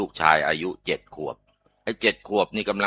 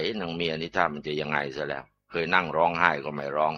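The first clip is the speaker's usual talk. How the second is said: quiet thinking to himself; inner thought; 3 semitones lower, 5 dB quieter than usual. Retold or imitated. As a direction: muse it softly under the breath. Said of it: "อีตาผัวก็นึกในใจ". (คิดในใจเบาๆ)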